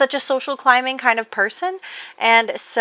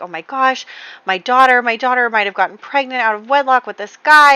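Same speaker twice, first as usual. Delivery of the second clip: furious; 5 semitones higher, 5 dB louder than usual. Retold or imitated. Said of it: "he's furious at Gareth".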